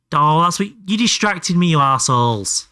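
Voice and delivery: mock-angry at chat; mock outrage. Real, not acted. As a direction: blame chat, half laughing. Blames chat for distraction.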